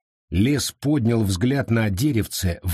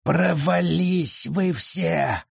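muttered curse; 7 semitones higher, much slower than usual. Acted. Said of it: "подумал лес".

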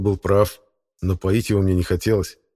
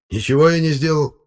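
grumbling, higher and louder denial; displeased; 9 semitones higher, 5 dB louder than usual. A narrator's reading. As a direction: defend yourself with irritation. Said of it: "недовольно ответил".

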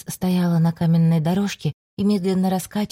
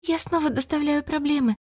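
muffled, face pressed into a chest; face in someone's chest; 10 semitones higher than usual. A narrator's reading. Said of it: "уткнувшись лицом ему в грудь". (лицом в грудь, приглушённо)

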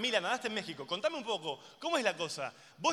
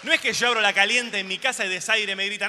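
shouted, much louder rant; furious comic rant; 4 semitones higher, 11 dB louder than usual. Acted. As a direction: yell it at the whole room. Ranting at ecologists.

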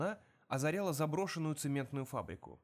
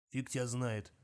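drawled; 2 semitones lower than usual. Acted. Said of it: "протянул Чипс".

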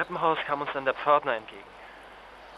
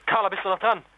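higher, louder, calling into the dead line; anxious call; 7 semitones higher, 5 dB louder than usual. Acted. Flo calls into the phone after the line cuts. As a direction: reach for her through the silence.

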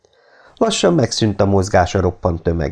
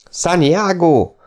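long, slow, high war cry; battle cry again; 10 semitones higher, much slower than usual. A narrator's reading. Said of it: "hangzott újra a kiáltás". (elnyújtott, magas csatakiáltás a lovasok ajkán)

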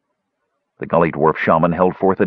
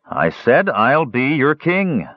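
louder; 5 semitones higher, slower than usual. Acted. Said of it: "Flint repeated more loudly".

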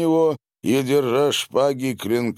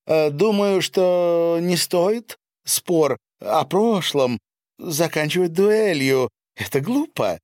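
loud appeal; 9 semitones higher, 3 dB louder than usual. Acted. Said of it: "произнесла громко".

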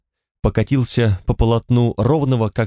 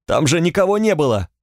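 whiny cry; 5 semitones higher than usual. Acted. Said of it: "закричал плачуще".

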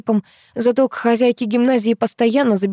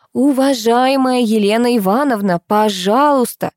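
sing-song; 4 semitones higher than usual. Acted. Teacher sweetly placating the angry mother. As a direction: coo it soothingly. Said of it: "и пропела".

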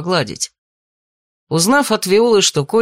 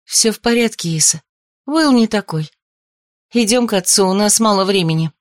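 put-on hurrying young woman; 4 semitones higher than usual. A narrator's reading. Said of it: "поторопила она девчушку".

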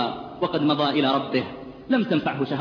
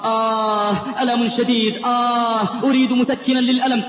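broken voice; 6 semitones higher, 4 dB louder, slower than usual. Retold or imitated. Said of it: "بصوت متقطع".

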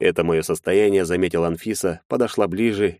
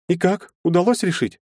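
lightly voiced young woman; 12 semitones higher than usual. A narrator's reading. Anfisa apologizing to Maxim, higher girlish voice. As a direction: play the shy girl saying sorry.

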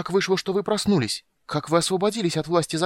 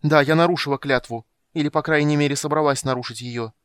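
high, loud defiant cry; girl defying the old mage, loud and desperate; desperate defiance; 5 semitones higher, 5 dB louder than usual. A narrator's reading. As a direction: shout back in desperate defiance. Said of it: "с отчаянным вызовом крикнула Сильвара".

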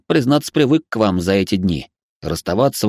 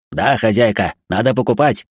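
demanding robot. Acted. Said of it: "вновь потребовал от нас робот".

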